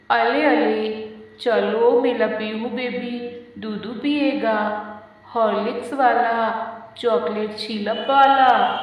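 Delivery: put-on loud, lisping baby talk to a toddler. Nanny lifts Pihu and baby-talks her into drinking milk, loud and lisping. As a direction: coo and lisp like talking to a baby.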